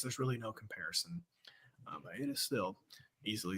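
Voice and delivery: breathy near-whisper. Real, not acted. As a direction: drop to a whisper. Trails into whisper.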